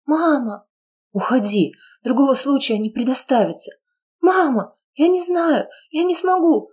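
put-on high tearful girl's voice; despairing cry. Daughter crying to her mother, despairing. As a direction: sob out your helplessness.

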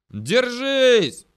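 very high, loud drawn-out shout; yelled warning. A narrator's reading. Soldier warning riders on lurching vehicle, yelling. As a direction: scream a warning to hang on. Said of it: "только и успел проорать я".

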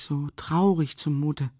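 slow, drawn-out "traurig". Acted. Raskolnikov repeating his sadness to Rasumichin, slow. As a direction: stretch "traurig" slowly, lingering. Repeated phrase, slower second take.

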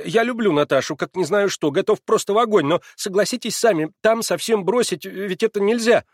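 высоко и громче, сбивчиво; умоляй о совете; взволнованный Алёша. A narrator's reading. (Алёша в смятении просит Ивана Петровича)

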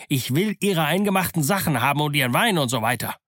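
a restless pirate pressing Silver; grumbling sailor. Acted. Israel Hands presses Silver, impatient and grumbling. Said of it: "murrte der Schaluppmeister".

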